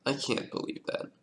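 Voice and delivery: breathless whisper of disbelief. Real, not acted. Streamer stunned by a puzzle move, whispering. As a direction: half-whisper it under your breath.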